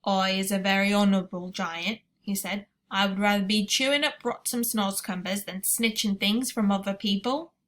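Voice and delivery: proud giant. Acted. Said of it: "raised his great head proudly".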